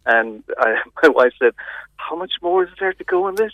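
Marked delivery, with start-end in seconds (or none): 1.9-3.5 higher-pitched mild complaint; imitating a fed-up viewer; retold impatient question. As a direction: ask it high, as if the film is dragging. Retelling wife's complaint about length.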